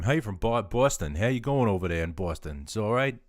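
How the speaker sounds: loud, badly faked Boston accent; horrible Boston accent. Streamer greeting a Boston viewer, badly faked Boston accent. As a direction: ham up a bad Boston accent. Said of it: "that was probably a horrible Boston accent".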